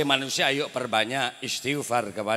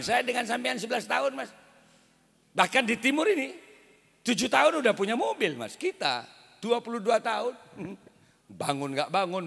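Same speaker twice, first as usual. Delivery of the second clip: lightly voiced complaining wife, pitched up; nagging wife; 2 semitones higher than usual. Wife nagging husband about richer neighbours, mild whine. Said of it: "sering dimarahi istrinya".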